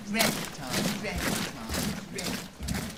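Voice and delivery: marching count fading. Acted. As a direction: chant fading into the distance.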